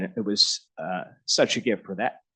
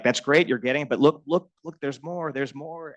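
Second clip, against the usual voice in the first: eager mentor; 5 semitones higher than usual. Retold or imitated. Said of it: "He's like".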